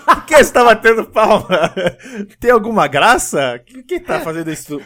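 loud, high offended questioning; hammed-up affront, starting loud; mock indignant. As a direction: demand to know why they are clapping, easing off. Acting person annoyed by clapping.

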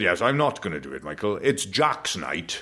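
lightly voiced posh dad, slowing to the end; imitated Welsh dad. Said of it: "And he said".

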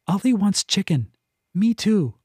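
a lightly high, pushy cat; cat pestering her person, high and eager. A narrator's reading. Cat Nax speaks.

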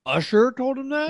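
high, loud disbelieving yelp; shocked. Real, not acted. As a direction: squeal it in disbelief. Shocked outburst at news about a singer.

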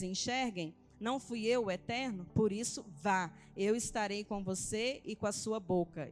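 lightly emphatic Bible reading, phrase by phrase; scripture reading aloud. Acted. Woman reading Moses' exchange with God to church, scripture reading.

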